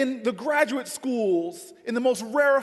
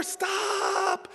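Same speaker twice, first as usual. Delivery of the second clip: yell; 7 semitones higher, 5 dB quieter than usual. Retold or imitated. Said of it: "I yell at the woman".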